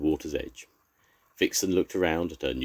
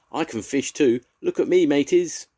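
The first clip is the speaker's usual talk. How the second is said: much higher, louder excited yell; shouting; 11 semitones higher, 7 dB louder than usual. A narrator's reading. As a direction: show off at the top of the voice. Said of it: "he shouted".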